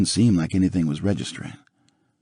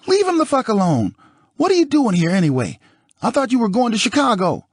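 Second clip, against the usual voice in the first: furious yelling; 3 dB louder than usual. Acted. Nicole furious at O J.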